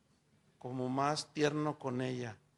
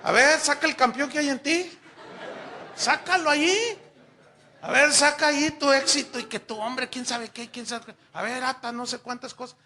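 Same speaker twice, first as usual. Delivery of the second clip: high, loud laughing taunt; hammed-up challenge to bring out his champion; mock pep talk; 8 semitones higher, 9 dB louder than usual. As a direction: egg him on like a mocking coach. Mock coaching the boy.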